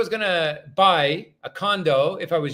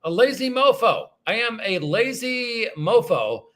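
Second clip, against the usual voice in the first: wry self-admission; 4 semitones higher than usual. Real, not acted. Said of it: "I'm the first to admit my own faults".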